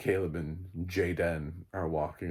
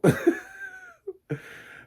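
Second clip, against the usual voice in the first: high laugh; 6 dB louder than usual. Real, not acted. Laughs at own joke.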